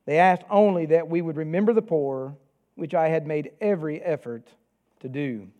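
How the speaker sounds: measured, even public reading of the epistle; scripture reading. Acted. Pastor reads Galatians to the congregation, steady reading voice. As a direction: read God's word out clearly to the standing church.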